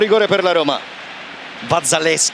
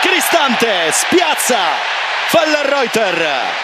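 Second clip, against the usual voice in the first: excited call; 3 semitones higher, much slower than usual. Real, not acted. Goal called live.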